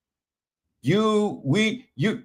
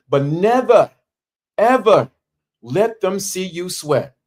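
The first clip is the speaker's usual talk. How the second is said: "never" and "ever" pitched high, with a pause after each; high, measured slogan delivery; emphatic pauses; 4 semitones higher than usual. Shown as a demonstration. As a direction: hit "never" and "ever" as separate beats, then "let them see you sweat".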